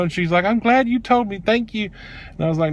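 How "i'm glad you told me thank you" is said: high-pitched thanks; imitated gratitude. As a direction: imitate her grateful reply up high. Imitates grateful associate.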